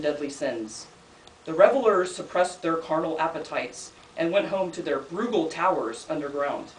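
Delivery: deliberate recital, phrase by phrase with pauses; poetry reading. Acted. Poet reading about two painters to an audience, deliberate recital. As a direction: recite it as a poem with a returning refrain. Reads second poem aloud.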